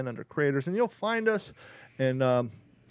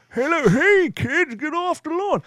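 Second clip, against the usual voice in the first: put-on much higher cranky old man voice, louder; grumpy old man; 13 semitones higher, 5 dB louder, slower than usual. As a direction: shoo the kids off like a crotchety geezer. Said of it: "Don talking like an old man".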